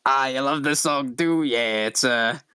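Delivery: chatty, lightly raspy alien; Lady Vera. Acted. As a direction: make raspy small talk about a favorite song. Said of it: "really raspy voice".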